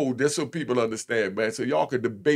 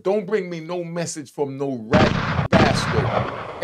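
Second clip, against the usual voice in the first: blunt retold order; slower than usual. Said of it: "I told my lawyer straight up".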